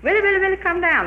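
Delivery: high, loud sing-song coaxing call; chanted witch's lure, high and loud; witch calling up the tree. Retold or imitated. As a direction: croon him down like a wheedling witch.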